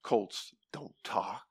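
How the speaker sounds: lightly voiced skeptical listener; mock skeptic. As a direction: play the doubter, low and slow. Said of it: "and you're going".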